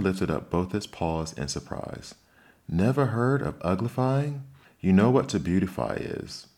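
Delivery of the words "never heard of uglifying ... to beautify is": high, loud disbelief; can't believe she never heard; astonished. A narrator's reading. Griffin astonished at Alice.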